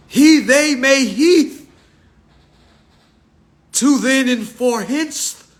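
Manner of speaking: slow solemn mock scripture, drawn out; mock Bible verse reading. Comedian reciting fake scripture to the crowd, solemn mock preaching.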